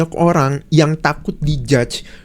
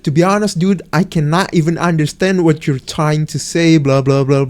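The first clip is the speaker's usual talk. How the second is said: confused foreign player; 3 semitones lower than usual. Retold or imitated. Online stranger telling him they can't understand him, mildly imitated. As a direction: mimic the baffled foreign gamer.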